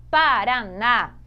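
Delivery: slow, loud "Paraná", leaning on the final "ná"; stress on last syllable. Shown as a demonstration. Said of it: "a sílaba mais forte em Paraná". ("Paraná" devagar, marcando forte o "ná")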